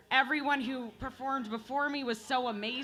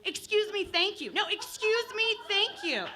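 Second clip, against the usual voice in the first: rising sing-song excuse me, thank you, climbing higher; fake-sweet politeness with claws out; politely aggressive; 5 semitones higher than usual. Comic mimics two women at a hockey game, mock-polite. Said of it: "It went a little something like this".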